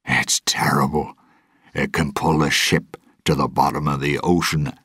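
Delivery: hushed, frightened whisper that turns to a lightly voiced mutter; shaky fearful whisper. Gibbs warns Will of the Kraken, hushed and afraid. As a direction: tell of the sea monster in a hushed, scared voice. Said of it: "His voice shook".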